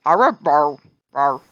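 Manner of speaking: growly rawr animal sounds; hyena noises. Acted. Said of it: "Hyena mouth doesn't say words".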